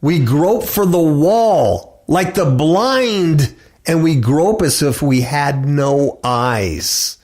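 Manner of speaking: slow, deliberate reading; scripture reading. Acted. Preacher reads Isaiah to listeners, slow and deliberate. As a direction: draw each phrase out slowly.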